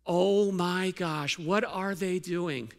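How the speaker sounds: drawn-out, mildly scandalized gasp of a question; mock outrage. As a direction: stretch it slowly in put-on alarm. Acting out the congregation's outrage.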